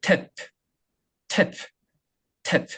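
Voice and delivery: each "탭" ending in a released puff of air; exaggerated final P. Shown as a demonstration. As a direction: pop a voiceless P after every "탭". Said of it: "프 발음을 넣어주는 거예요". ("탭" 끝마다 프를 터뜨려)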